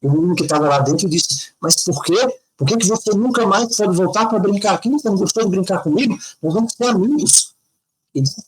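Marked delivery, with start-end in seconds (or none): 1.6-7.5 put-on child's voice. Boy asks playmate why.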